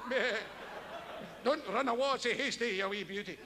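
doting Scottish shepherd cooing at a sheep; mock-tender shepherd wooing a sheep; amorous shepherd. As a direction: coax a sheep lovingly.

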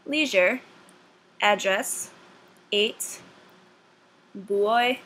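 each word read out slowly and on its own in a Boston accent; Boston accent word list. Shown as a demonstration. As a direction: say every word carefully as a Boston accent sample. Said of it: "a list of words that they want you to pronounce".

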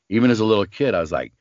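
ordinary delivery

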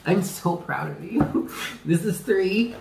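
slow, emotional pride with a laugh; tearful. Real, not acted. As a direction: draw the words out through happy tears. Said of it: "You're making me cry again".

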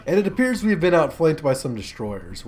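normal talking voice

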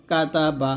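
কাতা বা in three even open syllables; model pronunciation. Shown as a demonstration. Teacher modelling the joined word, কাতা বা said syllable by syllable. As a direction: sound each vowel of কাতা বা fully. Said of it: "এরকম উচ্চারণ করতে হবে".

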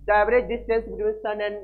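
slow, word by word, for writing down; slow dictation. Shown as a demonstration. Teacher dictating the definition to students, slow. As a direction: dictate it slowly so they can copy. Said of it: "क्या होता है बताओ".

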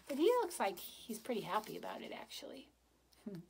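quick hushed whisper; whispered aside. Real, not acted. Aside to the children.

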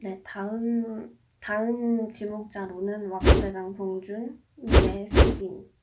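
shouting through the cold shock; in ice cold water. Real, not acted. Right after ice bucket dump.

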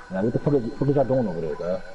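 stumbling over words, repeating; irritated stammer, words restarting; stutter. Real, not acted. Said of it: "I'm starting, I'm starting to stutter".

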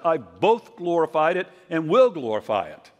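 loud, proclaiming voice from above; a booming voice from the sky; booming voice of heaven. Retold or imitated. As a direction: boom it out like heaven speaking. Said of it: "this audible voice booms out of heaven".

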